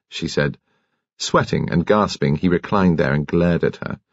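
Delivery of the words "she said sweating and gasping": plain reading voice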